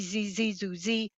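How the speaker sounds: short buzzy birdsong imitation; buzzy warbler song. Shown as a demonstration. Birding teacher gives the second warbler song, buzzy. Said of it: "two different buzzy songs".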